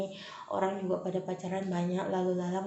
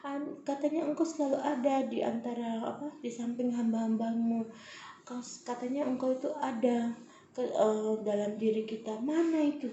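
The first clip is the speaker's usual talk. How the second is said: anguished plea; 4 semitones higher than usual. Retold or imitated. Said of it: "Aku bilang".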